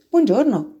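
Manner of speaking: high, gentle greeting; a kind hello to an unseen stranger; gently. Acted. The little prince answers the fox's greeting gently. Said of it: "rispose gentilmente".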